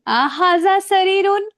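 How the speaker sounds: slow, loud अहाजा शरीरुन with the stress on शरीरुन; slow, clear classroom question; slow, loud Arabic question. Shown as a demonstration. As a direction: read it out loud and slowly to the class. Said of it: "ध्यान रखना क्या मैं बोल रही हूँ".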